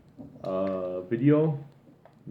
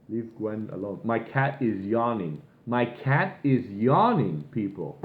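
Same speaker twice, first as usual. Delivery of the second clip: mock boring delivery; 2 semitones lower than usual. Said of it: "then at the end he says".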